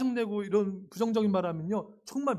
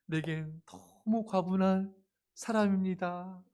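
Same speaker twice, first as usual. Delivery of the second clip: grateful; 3 dB quieter, slower than usual. Pretend. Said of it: "이렇게, 여러분".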